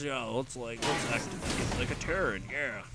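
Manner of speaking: lightly voiced soldier, casual; a hint of a goofy Marine talking to his squad. Caster voicing a Marine to his squad, lightly goofy. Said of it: "I was trying to do a Marine voice there".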